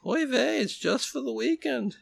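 high, comic Yiddish "oy vey"; Yiddish accent. Retold or imitated. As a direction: play it as an old Jewish joke, in a Yiddish accent. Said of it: "Joseph would say".

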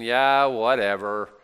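slow, shrugging yeah whatever; dismissive. Retold or imitated. People tired of their king, shrugging it off dismissively. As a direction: let it drop like you've given up. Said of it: "putting my own emphasis in there".

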